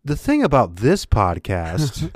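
mock anchorman solemnity; lightly voiced local newsman; Perd Hapley. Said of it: "Perd Hapley impersonation".

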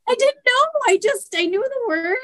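mock defensive kid. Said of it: "Avery was like".

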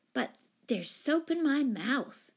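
put-on slow, high little-girl indignation; injured, high-pitched protest; indignant. A narrator's reading. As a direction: complain like an affronted small child. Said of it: "she added indignantly".

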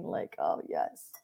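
soft breathy whisper of relief. Retold or imitated. Savoring firing a client, whispered relief. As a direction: whisper it like a weight lifted.

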